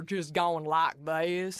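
imitated bad Texas accent; mock Texas accent. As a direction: put on a fake Texas twang. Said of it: "you can tell when they had a dialect coach".

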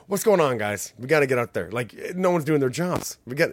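loud mock French pimp voice; hammed-up French accent, bossy. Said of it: "it's all in a French accent".

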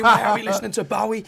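high laughing mock protest; laughing mock complaint. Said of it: "And, you know what I mean?".

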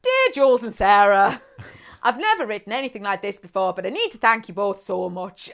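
put-on lightly done, hammy Irish accent reading the card; appalling Irish accent. Reading the Irish listener's card to the co-host in a mock Irish accent. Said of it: "do my appalling Irish accent".

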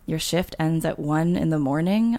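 "morning" lifted into a doubtful rise; unsure rising question. A narrator's reading. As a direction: check you heard right, ending "morning" on an upturn. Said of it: "unsure if I heard correctly".

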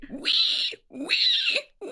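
high piggy squeals; baby pig squeal. Pretend. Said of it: "Or a baby pig".

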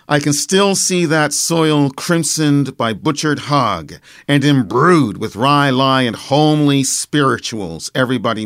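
slow, incantatory verse delivery with stretched stresses; poetry recitation. Acted. Poet recites his Nova Scotia poem from memory, slow declaimed verse.

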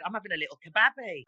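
quick line, "kebabby" with short flat a as in "cab"; punning "kebabby" to rhyme with "cabby"; Black Country "babby". Shown as a demonstration. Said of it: "we say babby as well".

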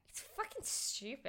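hushed, voiceless aside in disbelief; exasperated whisper. Real, not acted. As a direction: whisper it, fed up. Exasperated aside about his blaming.

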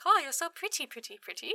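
soft mock seductive coo; lady with the knives, purring. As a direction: coo pretty pretty softly at her. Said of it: "She's like".

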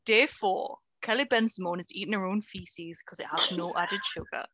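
Geordie Big Brother narrator; Geordie accent. Pretend. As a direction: Geordie voiceover announcement. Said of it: "I can do a Geordie accent".

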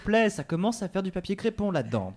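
high laughing plea; pleading through laughter. Acted. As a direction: beg while cracking up.

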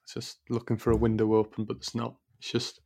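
soft, airy breathy voice. Real, not acted. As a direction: let air leak through the words. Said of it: "my breathy voice".

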